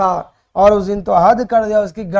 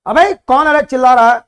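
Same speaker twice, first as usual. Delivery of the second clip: mock threatening headmaster; 3 semitones higher, 4 dB louder than usual. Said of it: "गाली देकर मेरे पिताजी को धमकाया".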